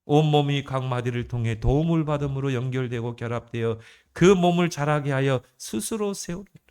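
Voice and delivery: steady, formal verse recitation; scripture reading. Acted. Preacher returning to the Ephesians verse, formal scripture reading. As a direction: read it out evenly, phrase running into phrase.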